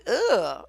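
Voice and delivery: imitated groan of disapproval; mock disgusted "ugh". Judgmental men condemning a partner, mock disgusted groan. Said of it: "they just so judgmental and condemning".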